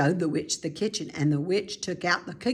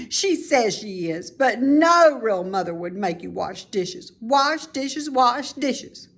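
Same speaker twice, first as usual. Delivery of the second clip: put-on a child's louder complaining voice, chanting the end higher; indignant little girl; 3 semitones higher, 4 dB louder than usual. Girl grumbling to Mrs Piggle Wiggle about dishes, indignant. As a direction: whine it like a put-upon girl.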